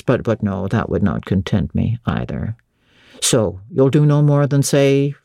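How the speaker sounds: dissatisfied master, pitched low; Rochester. Acted. Master wanting a fuller farewell from Jane, low and dissatisfied.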